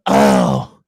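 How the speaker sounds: loud, low drawn-out "oh"; put-on groan before bad news; mock dismayed oh. Retelling the lady at dinner with a broken card machine, mock dismay.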